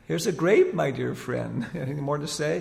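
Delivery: bright, coaxing call to a pet bird; coaxing the parrot. Retold or imitated. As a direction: tease it like offering a treat. Teasing the parrot in the play.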